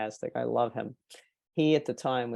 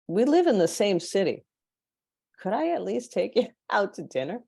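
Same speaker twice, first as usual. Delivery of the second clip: eager invitation; 7 semitones higher, 3 dB louder than usual. Retold or imitated. Inviting client to dinner.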